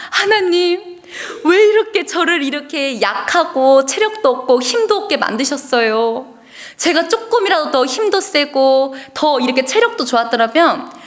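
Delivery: pleading with God through half-acted tears; tearful prayer. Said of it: "하면서 엉엉엉엉 울고 있었어요". (울먹이며 하소연하는 기도)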